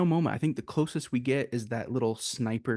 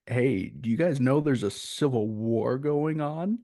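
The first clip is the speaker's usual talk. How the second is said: mildly cocky, imitating a film character; lightly acted cocksure question. Journalist character walks into the shop, imitated as mildly cocky. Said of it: "like, all cocky".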